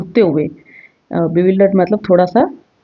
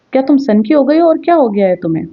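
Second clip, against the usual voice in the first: shouting; 5 semitones higher than usual. Acted. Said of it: "चिल्लाते हुए उसको बोलता है".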